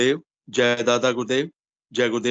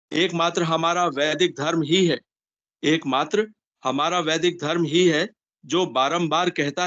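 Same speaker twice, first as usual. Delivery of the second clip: measured, slightly raised reading voice; devotional article reading; 4 semitones higher than usual. Acted. Disciple reading the guru's article to devotees, formal reading. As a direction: read it out clearly in careful phrases.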